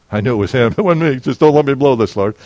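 a laugh then a quick plea; amused, then praying to God. Real, not acted. Laughing aside, quick prayer.

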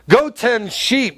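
ridiculing. Acted. Eliab dismissing young David before the giant, ridiculing. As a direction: draw it out as an acted put-down. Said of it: "had the mouth to ridicule David".

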